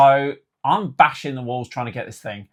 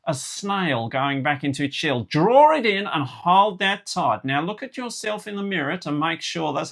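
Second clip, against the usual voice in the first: imitated Australian-South African accent; 6 semitones higher than usual. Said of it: "Oh, oh, what is South African".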